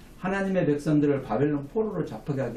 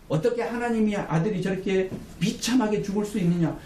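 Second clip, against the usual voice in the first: raised-pitch imitation of jeering; mock jeer, pitched up; mocking crowd; 6 semitones higher than usual. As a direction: act out the crowd's scornful disbelief. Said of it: "모든 사람들이 조롱했습니다".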